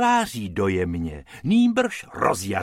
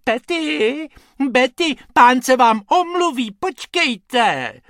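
sweet little voice; 13 semitones higher, 8 dB louder than usual. Acted. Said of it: "sladkým hláskem volá".

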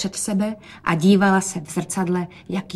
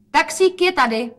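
higher, louder excited call; 8 semitones higher, 5 dB louder than usual. A narrator's reading. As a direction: call out happily. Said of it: "zvolala Rozetka". (Rozetka zvolá radostně)

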